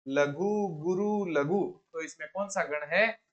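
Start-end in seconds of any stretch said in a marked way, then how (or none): 0.1-1.6 "लघु गुरु लघु" said slowly, each word set apart and drawn out; slow spelled-out pattern. Shown as a demonstration. Teacher spelling out the pattern for students, slow and deliberate. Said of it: "ये देखो लघु गुरु लघु".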